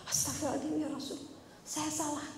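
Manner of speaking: soft, quick repentant plea; hushed apology to her husband; remorseful repenting. Retold or imitated. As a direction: say it softly, ashamed. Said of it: "Aisyah langsung istighfar".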